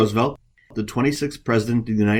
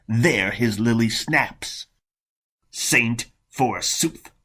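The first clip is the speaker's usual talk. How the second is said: sarcastic monk, lightly performed; spiteful monk; slower than usual. Acted. Monk scoffs at the rival's platter and goblet, sarcastic spite. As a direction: lean on the words with bitter mockery. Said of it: "almost overwhelmed with spite and rage".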